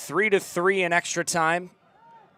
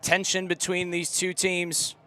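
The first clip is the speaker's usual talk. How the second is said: put-on loud English accent commentary, higher; louder mock English commentator; 4 semitones higher, 6 dB louder than usual. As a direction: keep the British broadcaster call going, tense. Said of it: "let it rip".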